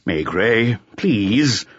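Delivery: mildly urgent plea, lifted at the end; understated, anxious appeal; agitated begging. A narrator's reading. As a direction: beg him with a touch of agitation. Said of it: "became agitated and begged him".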